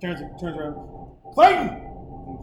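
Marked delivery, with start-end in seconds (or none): 1.3-2.4 calling out. Retold or imitated. Calling out to the pitcher.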